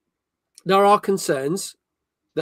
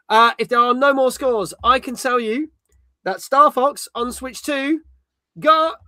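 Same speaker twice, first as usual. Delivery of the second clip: dramatic reveal; 7 semitones higher, 4 dB louder than usual. Acted. Host dramatically reveals review score.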